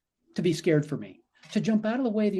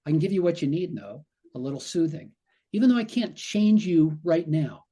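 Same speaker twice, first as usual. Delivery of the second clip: soothing self-talk. Shown as a demonstration. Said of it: "This is the attitude you bring to your brain".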